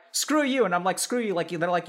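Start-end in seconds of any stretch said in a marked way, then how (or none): 0.1-0.6 mock angry jab, higher pitched; flaming. Gamer flaming a teammate in a video game, mock angry. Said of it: "if someone flames me". 1.0-1.3 mild mock retort, a bit higher; flaming back. Player flaming a teammate back a little, mock angry. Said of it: "flame them back a little bit".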